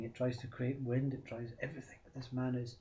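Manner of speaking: ordinary delivery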